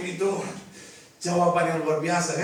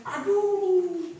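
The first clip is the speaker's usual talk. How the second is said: panicking mother; 10 semitones higher, 3 dB louder than usual. Acted.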